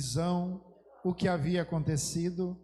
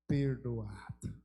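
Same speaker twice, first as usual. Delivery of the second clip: low, slow and hushed; solemn hush; 8 semitones lower, 5 dB quieter, much slower than usual. Acted. God pronouncing forgiveness, in a low, slow hush. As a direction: let the single word fall softly and slowly.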